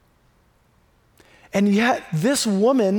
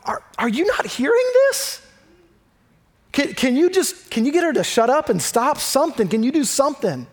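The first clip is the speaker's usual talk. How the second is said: exasperated disciples. Retold or imitated. Disciples complaining to Jesus about the woman crying out, exasperated. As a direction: act out fed-up followers at their wits' end. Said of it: "so much so the disciples are going".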